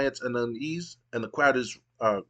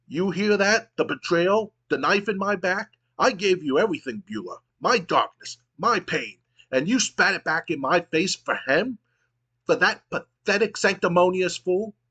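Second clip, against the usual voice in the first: angry; 5 semitones higher than usual. Acted. Betrayed heel raging at Beulah.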